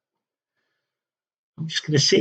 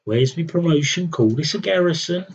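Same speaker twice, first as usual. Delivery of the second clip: mimicking moaning general; 5 semitones higher than usual. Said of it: "He's always moaning".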